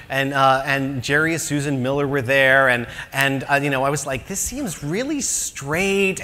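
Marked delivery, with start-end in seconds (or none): 4.3-6.2 wary aside. Retold or imitated. Retold aside at church.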